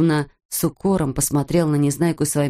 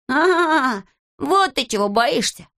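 high, gleeful triumph; 8 semitones higher, slower than usual. Acted. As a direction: pounce on it with delight. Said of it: "обрадовался Незнайка".

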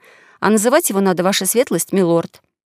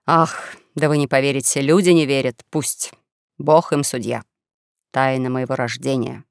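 understated martyr's lament, lower than the narration; self-pitying young swindler; 6 semitones lower than usual. Acted. Young swindler playing the martyr before his companions, understated self-pitying lament. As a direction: lament with measured, resigned pauses.

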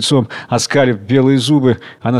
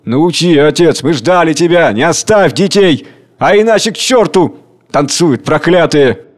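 loud feverish crowd cries, pitched up; frenzied mob voice; 3 semitones higher, 4 dB louder than usual. Acted. Crowd cheering a riot, in feverish shouts. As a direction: rouse the rabble with wild hunger.

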